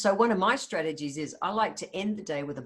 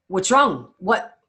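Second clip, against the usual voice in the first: louder, higher, hammed-up panic asking what's wrong; mock alarmed partner; 4 semitones higher, 9 dB louder than usual. Partner startled by a sudden request to chat, mock panicked and loud. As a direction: play the startled partner who thinks the world is ending. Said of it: "They're gonna go".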